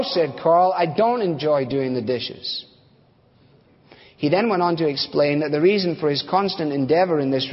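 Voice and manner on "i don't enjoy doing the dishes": slow, deliberate, lightly acted bitterness; understated resentment; bitter refusal. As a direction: spell out the grievance slowly. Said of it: "underlying sense of bitterness".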